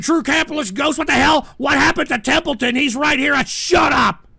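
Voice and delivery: loud, high outburst; angry shouting. Real, not acted. Streamer exploding at chat, angry yells. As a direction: yell in exasperation.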